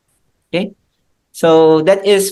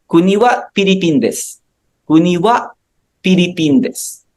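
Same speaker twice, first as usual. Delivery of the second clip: said with energy; 2 semitones higher than usual. Shown as a demonstration. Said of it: "you have to say it with energy".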